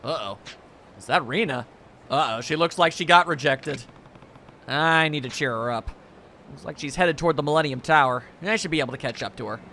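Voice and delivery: hint of a gruff stoic lead; stoic hero voice. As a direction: read it as the calm yakuza hero. Kiryu lines read in-game.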